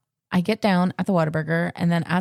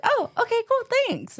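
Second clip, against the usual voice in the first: awkward high thanks. Retold or imitated. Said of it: "I was like".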